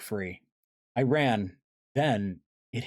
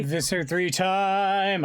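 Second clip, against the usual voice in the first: excited; 11 semitones higher, 5 dB louder, much slower than usual. Real, not acted. Reader cheers for villain chapter.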